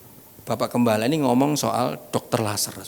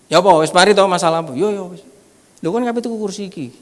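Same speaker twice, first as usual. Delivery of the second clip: acted questioning; 6 semitones higher, 6 dB louder than usual. Acted dialogue about the chair.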